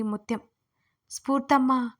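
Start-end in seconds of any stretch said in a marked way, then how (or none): 1.1-1.9 drawn out. Retold or imitated. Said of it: "దీర్ఘం తీస్తూ".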